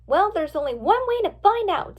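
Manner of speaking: rally your friends to investigate; high, eager declaration; rallying resolve. A narrator's reading. Friend rallies group to act.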